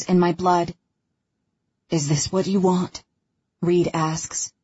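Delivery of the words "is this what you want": pleading. Acted. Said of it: "supposed to be a taunt, but comes out as a plea".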